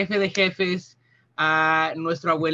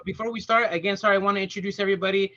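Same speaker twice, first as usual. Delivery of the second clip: rushed nervous introduction; much faster than usual. Real, not acted. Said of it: "I'm a little nervous".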